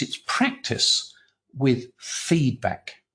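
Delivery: slow, spaced-out punchline; deliberate reveal. Retold or imitated. Editor reveals the secret to the researcher, deliberate. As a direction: deliver the answer slowly, with a pause midway.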